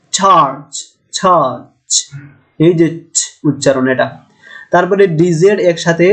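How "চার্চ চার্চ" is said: চার্চ with a stop then a hiss on each ch; demo affricate ch. Shown as a demonstration. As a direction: start চার্চ closed and release into friction. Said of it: "এটার উচ্চারণ হচ্ছে ছ". (চার্চ শব্দে ছ উচ্চারণ দেখিয়ে)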